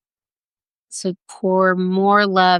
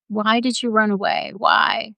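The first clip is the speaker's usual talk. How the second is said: higher, gently pleading questions; pained questioning; 4 semitones higher than usual. Acted. Rescuer asking found Jo about running away, pained questioning.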